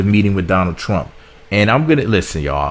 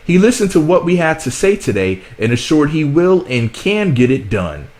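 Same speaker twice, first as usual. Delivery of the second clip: a hint of a rapper reading his own tweet; 2 semitones higher than usual. Reading the rapper's tweet to viewers in a light impression. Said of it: "try to say it in his voice".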